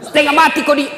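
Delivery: high, loud taunt; angry wife. Acted. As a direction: keep scolding.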